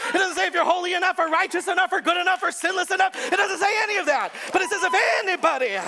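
fast, building preacher's cry up to shouts; fired-up sermon crescendo; preaching at full force. Acted. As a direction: drive the congregation toward the climax.

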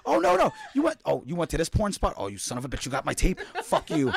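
high, laughing mock outrage at a rival collector; mock yelling rival. Friend yelling at his rival collector, laughing mock fury. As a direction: playfully scream at your friend for beating you to a tape store. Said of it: "we would scream at each other like".

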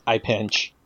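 low, quiet monotone. Acted. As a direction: say it in a dull, hushed monotone. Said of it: "you just get a monotone voice".

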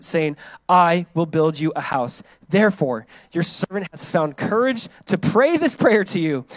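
measured, emphatic Bible reading; scripture reading. Acted. Preacher reading David's prayer to the congregation, emphatic. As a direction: proclaim the prayer with deliberate weight.

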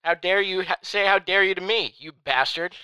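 high, loud spluttering outrage; shaking with anger. Acted. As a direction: sputter in hammed-up rage. Mock fury, shaking with anger.

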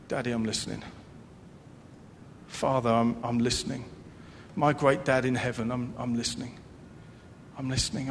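soft, low surrendered prayer; a child whispering to Dad; hushed prayer. Acted. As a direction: pray quietly, leaning in to listen. Quiet surrendered prayer acted.

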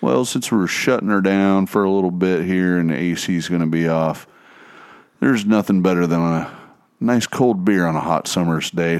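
lightly voiced laid-back airline captain; a hint of a drawling cockpit announcement; pilot voice. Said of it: "Bob up front would have been like".

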